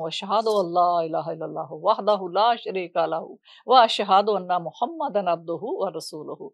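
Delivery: slow, measured recitation of the creed; slow, solemn recitation of the Arabic creed. Retold or imitated. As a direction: recite each word deliberately, with reverence. Umar recites the declaration of faith.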